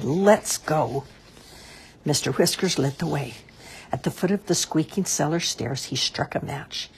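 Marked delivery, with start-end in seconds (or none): 0.0-1.0 a touch of sudden spirit. A narrator's reading. Maggie agrees to go down to the cellar, spirited. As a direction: say it with mild, spirited resolve. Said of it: "with sudden spirit she said".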